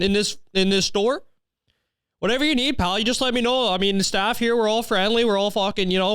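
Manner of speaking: high-pitched Canadian store clerk voice; hammed-up friendly Canadian. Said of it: "address me like a fucking Canadian".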